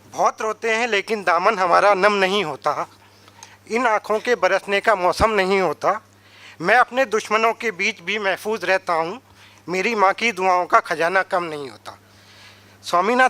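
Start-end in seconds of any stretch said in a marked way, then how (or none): 0.1-12.0 measured verse recital, line by line; declaimed verse with pauses between lines; poem recitation. Acted. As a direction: recite it as a couplet to an audience. Recites a verse about mother.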